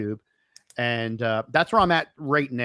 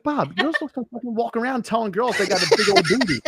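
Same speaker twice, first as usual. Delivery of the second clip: exasperated scolding; 6 semitones higher than usual. Retold or imitated. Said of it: "I'm like".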